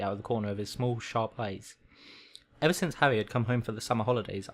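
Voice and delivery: measured read-aloud storytelling; story narration. A narrator's reading. Reading a requested story to a listener, story narration. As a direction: read it like a bedtime audiobook.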